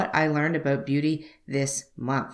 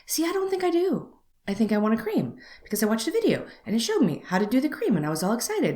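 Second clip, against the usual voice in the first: higher, bright mock-eager pleading; retold eagerness, pitched up and lightly hammed; eager self-quote; 6 semitones higher than usual. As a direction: play up how keen she was, half-joking. Retells her own eager reply.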